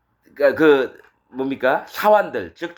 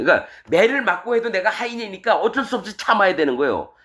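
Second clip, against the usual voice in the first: ordinary talk, nothing marked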